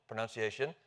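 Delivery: "pronunciation" said with NUN in the second syllable; standard NUN variant. Shown as a demonstration. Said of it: "see, there we are".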